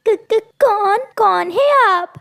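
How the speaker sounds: frightened stammer. Acted. Frightened at knife point.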